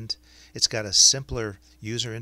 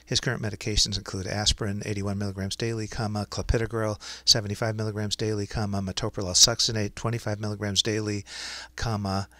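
dictating. Shown as a demonstration. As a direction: dictate clearly to speech software. Dictates a medical note to software.

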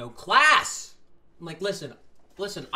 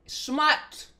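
shocked exclamation; 11 semitones higher, 5 dB louder than usual. Real, not acted. Mock outrage at smut.

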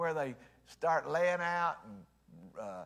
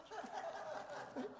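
high laugh; 13 dB quieter than usual. Real, not acted. Laughing at own slip.

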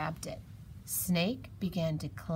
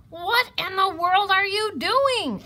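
high, loud astonished question; incredulous, pitched right up; astonished hedgehog; 13 semitones higher, 9 dB louder than usual. A narrator's reading. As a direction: demand it in amazement. Hedgehog's startled question to Mouse.

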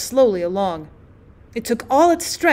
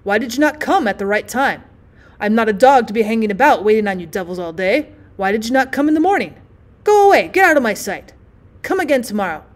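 polterndes Schimpfen, lauter; doctor scolding. Pretend. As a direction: scheltend wie ein genervter Arzt. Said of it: "will be calling me names".

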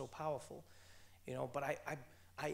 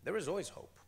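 louder, ringing "There is always hope" with a firm stress on "is"; emphatic declaration; 5 semitones higher, 6 dB louder than usual. Real, not acted. Answering the audience's plea for hope, firm and loud. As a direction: proclaim it boldly, full voice.

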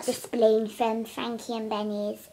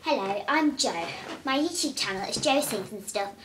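helium voice; 2 semitones lower than usual. Real, not acted. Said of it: "This is so cool".

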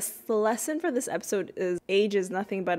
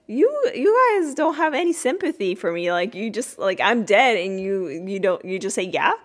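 indignant Cliff; 4 dB louder than usual. Retold or imitated. Imitating Cliff complaining to his kids, mock indignant. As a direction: whine that nobody cares he's dead. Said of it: "And Cliff was like".

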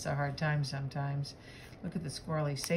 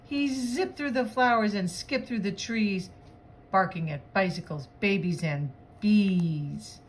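lively rhyming read-aloud, stretching the last words; animated picture-book voice; story narration; 2 semitones higher, 5 dB louder than usual. Acted. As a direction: read the chase to children with bounce.

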